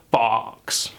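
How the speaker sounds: FOX with an open British AW; open vowel. Shown as a demonstration. Accent teacher showing an open vowel, British fox. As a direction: say FOX as "fawks", mouth open. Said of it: "It's a much more open".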